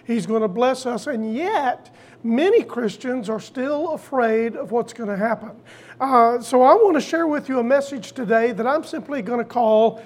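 ordinary talk

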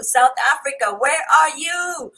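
loud call to the viewers. Real, not acted. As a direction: call out across the room. Calling out to South Africa.

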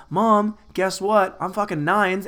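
acted gleeful boasting; mock excited announcement. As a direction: brag to mom like it's big news. Acted bragging call to his mom.

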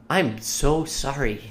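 hushed-down, drawn-out sympathy, imitated; apologetic. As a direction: drop down and draw out the mock apology. Retold apology to customer.

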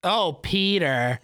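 slow drawn-out cartoon mom; Lois impression. Friend tries Lois, drawn out. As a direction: stretch it out like Lois. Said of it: "my best Lois".

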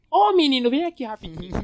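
put-on high old lady calling; granny voice. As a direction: call a friend over like a granny. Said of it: "você vai chamar o parceiro".

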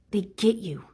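"They get you" whispered, unvoiced and falling; whispered repeat. Shown as a demonstration. Echoing her own point to viewers, whispered. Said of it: "repeat of line 51 in a whisper".

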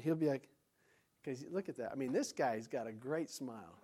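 usual speaking voice

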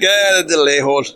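a hint of a sly halfling merchant; lightly voiced halfling. Gride offering the party Slug's clothes, mildly sly halfling voice. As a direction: pitch it a little up and sell it.

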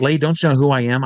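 quick, mildly indignant imitation; lightly mock a pompous customer; imitated self-important magician. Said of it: "he come up and he said".

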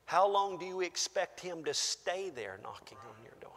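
hushed whispered question. Real, not acted. Pastor asks congregation, in a whisper. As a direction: whisper it to draw them in.

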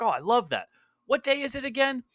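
high, airheaded mock voice of a friend; clueless Marky. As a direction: play the clueless friend, sweet and vague. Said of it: "And he's like".

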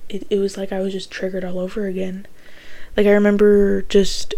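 sleepy, heavy late-night voice; tired, groggy voice at 1:45 a.m. Real, not acted. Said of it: "I'm sorry if I sound really groggy".

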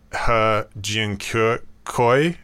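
He Jiankui sounded out very slowly, as an unsure non-native attempt at Chinese; tentative Chinese pronunciation. Real, not acted. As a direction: carefully attempt the Chinese name "He Jiankui", drawing out each syllable. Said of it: "pardon my Chinese pronunciation".

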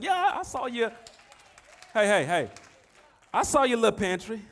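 loud, high-pitched mock of a belittling hater. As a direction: imitate a hater shrinking the good news. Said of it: "he always add "little".

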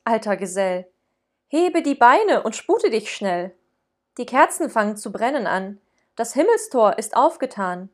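a hint of a bright Christkind urging; lightly voiced Christkind, hurrying him on; bright child voice. Christkind urging Ruprecht to hurry, lightly voiced. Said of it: "mit heller Stimme".

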